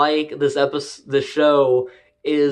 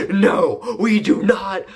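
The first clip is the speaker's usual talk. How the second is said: mock angry rant; 5 semitones higher than usual. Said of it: "is like".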